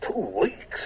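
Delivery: high, incredulous question; surprised. Acted. Commodore startled by the colonel's estimate, asking high and incredulous. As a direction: hit the first word in disbelief. Hornblower dismayed at long delay.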